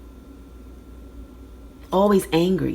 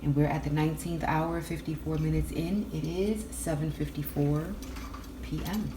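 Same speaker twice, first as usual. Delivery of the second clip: news anchor voice; 10 dB quieter than usual. Real, not acted. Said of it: "I sound like a news anchor when I open up".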